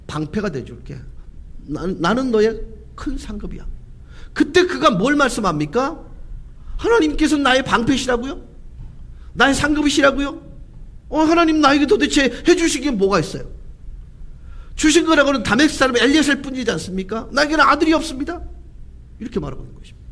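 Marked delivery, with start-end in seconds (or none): 0.1-3.6 soft, half-whispered divine reassurance; hushed promise. Acted. God promises wavering Abraham a great reward, hushed. 6.8-18.4 raised-pitch, incredulous complaint; indignant protest. Acted. Childless Abraham questions what God has given him, indignant.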